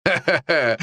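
short scornful ha-ha-ha; mocking laugh. Hawk scoffs at the forest guardian, mocking laugh. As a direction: laugh derisively at a foe.

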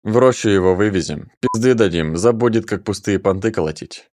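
coolly plan the beating; dry, flat. Acted. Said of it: "сухо рассуждал Градский".

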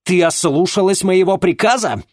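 high, loud demanding shout; angry father. Acted. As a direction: thunder it at her. Father scolding daughter.

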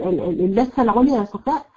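ordinary talk

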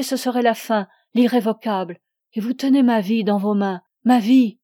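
lightly voiced desperate woman, pressing and urgent; a touch of frantic pleading. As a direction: plead with mild desperation, rising to a loud last cry.

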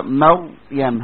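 مريم stretched very slowly with a full, heavy ر; slow tajweed demo of a heavy ر; heavy Raa. Shown as a demonstration. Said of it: "مش كده؟".

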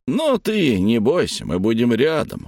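put-on calm the boy down; reassuring. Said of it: "уверяет Азарадель".

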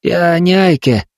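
put-on boy firmly denying he is Aike. A narrator's reading. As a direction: state it firmly, no doubt. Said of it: "твёрдо сказал Вонючка".

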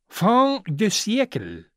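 lordly French aside, unhurried; dropped French phrase. A narrator's reading. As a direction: let the French slip out lazily. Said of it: "проронил лорд Генри".

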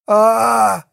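wounded man screams under the knife; pained scream. A narrator's reading. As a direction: scream out in sudden pain. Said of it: "Василий закричал".

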